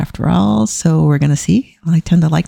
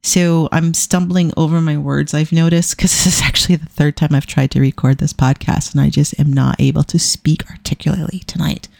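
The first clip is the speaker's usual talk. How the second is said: talking with a dry mouth; sticky, dry-mouthed speech. Real, not acted. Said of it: "I have the worst dry mouth tonight".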